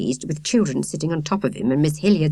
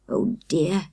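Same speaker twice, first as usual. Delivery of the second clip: whispered. A narrator's reading. Miss Hilliard repeating herself under her breath, whispering. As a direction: breathe it out, barely audible. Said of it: "she repeated".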